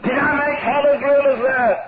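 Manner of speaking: solemn, ringing revival preacher; fervent preaching. Acted. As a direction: preach it as a grave, chanted contrast. Preaches heaven against hell.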